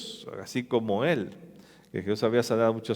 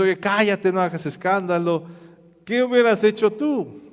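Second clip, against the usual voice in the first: scolding crowd; 5 semitones higher, 3 dB louder than usual. Acted.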